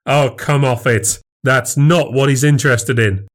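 scoffing. Acted. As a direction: scoff at her naivety. Husband scoffs in quarrel.

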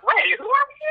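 high, startled exclamation; sudden high-pitched surprise; surprised double take. Retold or imitated. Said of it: "I just double take".

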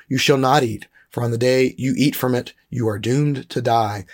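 measured read-aloud with deliberate emphasis; scripture reading. Acted. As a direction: read the passage aloud deliberately, weighting key words.

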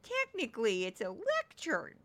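soft, fussy know-it-all quote; mock a pedant correcting someone, quietly; pedantic corrector. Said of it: "I can't just infuse".

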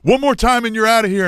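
high-pitched warning from an angry referee; re-enacted yelling back. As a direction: bark a last warning. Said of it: "he starts yelling back".

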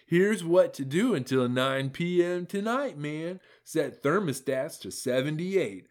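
mock politician reading a public alert; Gavin Newsom voice. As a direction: read the tweet like a solemn governor's address. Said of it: "in my best Gavin Newsom voice".

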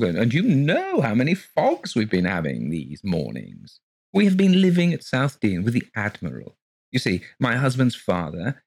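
high, gushing genteel lady voice; gushing landlady. Acted. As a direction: pour it out sweetly and breathlessly high. Mrs Colgate's flowing gushing speech.

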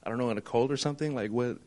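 quiet, uneasy retold inner voice; a hint of hushed worry, said mostly to himself; hushed fearful. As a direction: murmur it like a scared thought that just hit you. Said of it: "kind of, like, fearful in that".

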